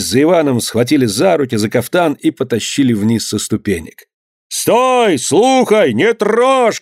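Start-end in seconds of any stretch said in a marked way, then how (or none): 4.5-6.8 high-pitched urgent calls; narrated cries of many voices; crowd shouting. A narrator's reading. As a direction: call out from the crowd to stop them. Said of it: "кричали голоса".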